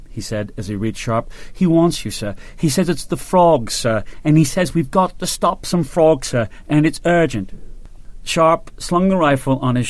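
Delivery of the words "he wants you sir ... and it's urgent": lightly voiced boyish officer, urgent; eager young ensign.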